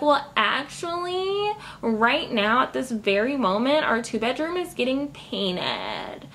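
mock prim clerk. Voicing Susan's excuse.

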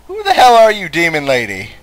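shout. Real, not acted. Yelling at demon.

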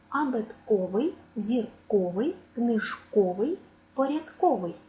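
«зірковий, книжковий» stressed on -КО-; stress on о suffix. Shown as a demonstration. Teacher drilling stress on the suffix -о-. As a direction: hit the -ко- syllable each time. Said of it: "наголос падає на суфікс «о»".

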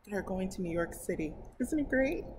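plain reading voice

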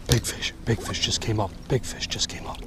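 a gasp, then "big fish" half-whispered in awe; hushed, stunned by the fish; breathless excitement. Real, not acted. Huge fish surfaces near boat.

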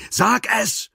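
sharp high shout; demanding shout at gunpoint. A narrator's reading. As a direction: yell it at him. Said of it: "schrie sie".

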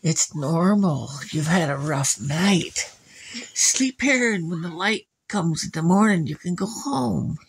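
put-on slow, lulling old woman voice; soothing old lady. Old lady lulling Ivan to sleep, slow and soothing. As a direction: lull him to sleep. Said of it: "And the lady said".

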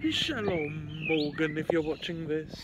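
posh voice greeting; posh accent. Acted. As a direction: greet him like a posh gent. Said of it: "stop trying to make an accent".

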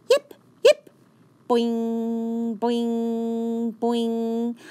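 very high sharp yips, then bouncing boings; tiny dog bouncing in; yippy tiny dog. A narrator's reading. Fifi yips and bounces toward Rosie, very high.

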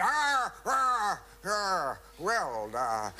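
high loud panicked ah ah ah; flustered stammer. Retold or imitated. Actor stuck without a line, loud high flustered stalling. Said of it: "no, no line".

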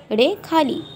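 रे with a retroflex flap, /ɖe/; retroflex rre. Shown as a demonstration. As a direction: flip the tongue back on रे, ṛe khālī. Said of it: "रे खाली".

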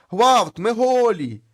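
high, loud, very slow retold wail; squealing cry. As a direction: stretch out the naked souls' cry. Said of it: "а там знову пищать". (протяжний гучний високий писк)

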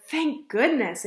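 a touch of spoken relief; relieved. Acted. Ava's mother arrives in time, mildly relieved. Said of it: "Ava's mother sighed in relief".

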